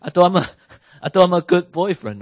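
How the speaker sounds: put-on a dumped boyfriend's startled protest; stunned disbelief. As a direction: squeak What in disbelief, then protest. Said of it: "You're like".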